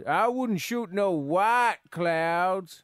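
slow, lightly put-on American southern accent. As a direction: drag out dark clouds in a light southern accent. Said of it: "how's your southern accent there".

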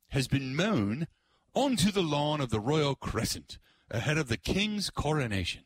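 light mock British accent on the headline. Shown as a demonstration. Host reading a British headline, lightly put-on British accent. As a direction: read it out with a hint of British accent. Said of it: "I gotta say it in the, the British tone".

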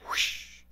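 soft breathy whoosh of souls rushing past; whoosh sound. Retold or imitated. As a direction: blow it out like something flying by.

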